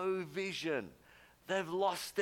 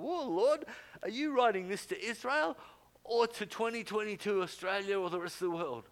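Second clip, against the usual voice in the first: high, louder awed cry to the Lord; amazed question to God; 6 semitones higher, 5 dB louder than usual. Retold or imitated. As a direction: ask God in astonished wonder. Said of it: "I'm going".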